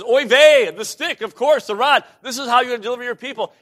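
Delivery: high, fast, hammed-up Moses; mock know-it-all Moses. Preacher mocking a cocky Moses, high and quick. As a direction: rattle it off like a smug know-it-all. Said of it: "And Moses says".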